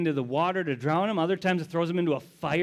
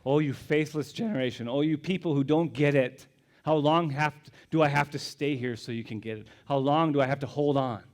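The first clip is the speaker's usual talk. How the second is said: frustrated. Acted. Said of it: "Jesus is just frustrated himself".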